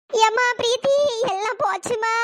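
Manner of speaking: sobbing appeal to a relative; tearful wail with a stretched, sobbing end. Acted. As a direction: cry out that all is ruined. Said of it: "ஏதோ உயிர் போன மாதிரி கத்திட்டு இருக்கு".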